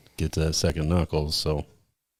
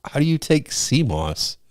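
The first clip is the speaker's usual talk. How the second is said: high, slow puzzled question; baffled; 7 semitones higher, slower than usual. Retold or imitated. Asking coworker about sea moss, slow high disbelief. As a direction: draw it out in disbelief. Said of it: "I'm like".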